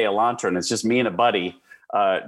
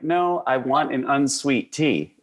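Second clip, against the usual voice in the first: mild, drawn-out insistence, pitched higher; slow retold insistence; 5 semitones higher than usual. Customer retelling his order to the waitress, slow insistence. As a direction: insist slowly, as if restating an order. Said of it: "And I was like".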